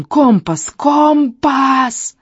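high, gurgling, hysterical demand from a monster. Acted. Hound demanding the compass from the old shaman, hysterically high. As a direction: choke out the demands in a frantic high pitch. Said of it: "Истерично захлёбывался он".

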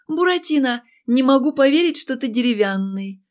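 languid, purring seductress voice; sultry purr. Acted. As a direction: purr it out lazily like a flirt. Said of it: "томно промурлыкала я".

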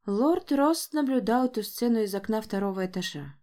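plain reading voice

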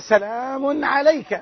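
calm and kind despite insult; Abraham's mild reply to his father; gentle greeting. Retold or imitated. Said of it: "إنما قال".

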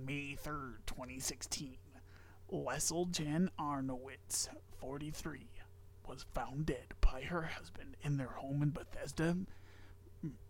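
hushed whispered reading; whispering. Acted. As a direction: whisper the grim detail. Reads story in whisper.

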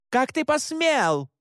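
high, slow furious cry; shouting. Acted. Mother shouts at her son in outrage, high and slow. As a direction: hurl it at him in outrage. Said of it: "крикнула она".

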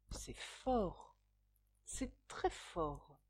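soft, slow murmur to himself. A narrator's reading. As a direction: murmur it, quietly impressed. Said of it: "murmura Sherlock Holmes".

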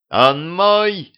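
high, loud claiming cry; shouting. Acted. Королева кричит, бросаясь за Гришей, громко и высоко. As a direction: call out to claim the prey. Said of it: "закричала королева".

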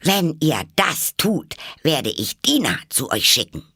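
hoch und laut, langsam gerufen; laut drohend hinausschreien; lauter Schrei. A narrator's reading. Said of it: "schrie Alice, so laut sie konnte". (Alice schreit die Tiere an, laut)

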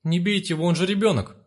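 mother crying out to the thugs to spare her son; wailing. Acted. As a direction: beg them to spare the child. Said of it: "завопила мать".

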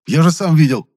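loud, high protest; insistent shout. A narrator's reading. Valentin insisting to the pharmacist, loud and high. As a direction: shout that you saw it yourself.

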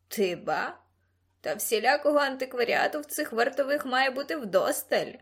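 slyly amused creature voice; put-on creature voice, gawking; Ксимеріус marvelling. A narrator's reading. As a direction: remark like a cheeky creature. Xemerius the creature comments.

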